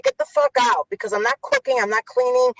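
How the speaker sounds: high-pitched, indignant retort; defiant refusal. Retold or imitated. Retelling what she'd tell a demanding man, indignant and high.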